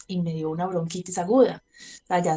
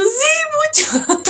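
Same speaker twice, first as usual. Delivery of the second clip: retold crying; 6 dB louder, much slower than usual. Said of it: "Y yo lo que hice fue llorar".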